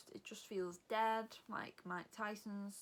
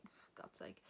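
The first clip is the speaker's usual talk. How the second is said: whispered exasperated for God's sake; muttered to self; 12 dB quieter than usual. Retold or imitated. Waiting in the car park, muttering in a whisper. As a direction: breathe it out under your breath, fed up.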